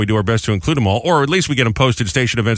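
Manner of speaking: upbeat radio host read; radio announcer. Acted. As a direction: promote the segment to listeners. Reads the station's segment promo.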